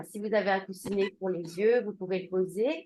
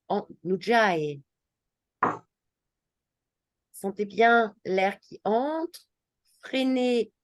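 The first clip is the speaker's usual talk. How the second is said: measured yoga-teacher voice with lingering key words; guided breathing instruction; 5 dB louder than usual. Acted. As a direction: lead the breath patiently, leaving pauses between phrases. (voix de guidage de yoga, posée, avec des pauses)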